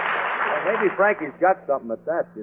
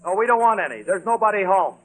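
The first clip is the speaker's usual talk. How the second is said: higher-pitched irritated brush-off; brusque refusal; 4 semitones higher than usual. Acted. Man sending away a caller at his door, brusque.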